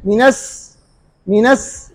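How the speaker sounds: मिनस with a sharp front s instead of sh; wrong s sound. Shown as a demonstration. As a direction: push the air forward so मिनश becomes मिनस. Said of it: "सीन की आवाज आएगी".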